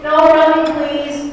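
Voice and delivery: loud warning. Real, not acted. Calling warning to crowd.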